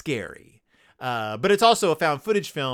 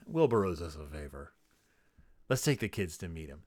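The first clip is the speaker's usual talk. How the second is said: much lower and softer, sly aside; scheming parents; 10 semitones lower, 10 dB quieter than usual. Retold or imitated. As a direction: murmur it like a quiet backroom deal. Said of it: "Maybe they're just like".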